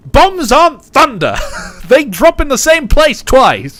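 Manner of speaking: shrill, very high, loud yelling. Tallying tank scores for a listener who played War Thunder together, shouting. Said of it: "sorry, uh, I'll stop shouting".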